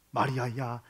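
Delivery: soft, low tender calling of the name; Jesus gently calling Mary, low and soft. Acted. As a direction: call her name gently.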